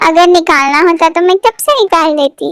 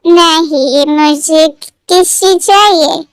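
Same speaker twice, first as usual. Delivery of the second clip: tipsy; much slower than usual. Acted. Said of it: "तुम नशे में हो?".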